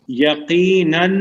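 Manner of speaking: یقیناً drawn out slowly, rising; slow emphatic gloss. Shown as a demonstration. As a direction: stretch یقیناً to stress it. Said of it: "اس کا معنی کیا ہوگا؟". (یقیناً کو کھینچ کر زور سے)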